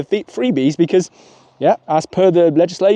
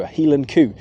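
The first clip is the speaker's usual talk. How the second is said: Scottish accent. Shown as a demonstration. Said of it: "not just me mocking the Scottish accent".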